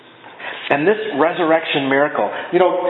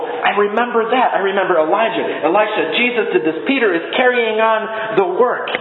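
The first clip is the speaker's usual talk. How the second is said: mildly excited voicing of a crowd; higher, eager quote of people recognizing it; excited onlookers; 5 semitones higher than usual. Preacher voicing people who recognize Peter's miracle, excited. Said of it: "they were excited about that".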